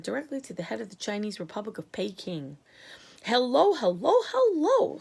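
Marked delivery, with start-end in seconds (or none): 3.2-5.0 louder, rising hellos into the phone; impatient calling. A narrator's reading. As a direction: shout down a bad line. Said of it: "said the president".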